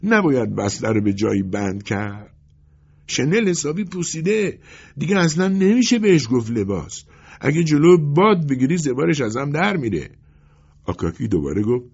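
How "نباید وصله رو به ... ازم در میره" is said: irritated tailor, rising in pitch; sour, emphatic objection; grumpy. A narrator's reading. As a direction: refuse grumpily, getting higher as it goes. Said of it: "پتروویچ با اوقات تلخی گفت".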